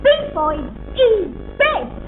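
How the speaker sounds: slow, deliberate slogan delivery; advert slogan. Acted. Actress replaying her advert line for approval, slow and proud. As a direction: proudly recite the tagline, drawn out. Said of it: "when I said".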